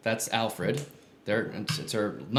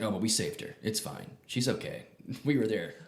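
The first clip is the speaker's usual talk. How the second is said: offhand Batman; 4 semitones lower, 6 dB quieter than usual. Retold or imitated. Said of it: "Bat was like".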